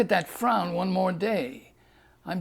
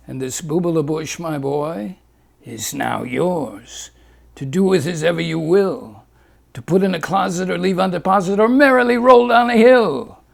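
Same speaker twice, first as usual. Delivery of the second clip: Doctor Leguise; 6 dB louder than usual. Acted.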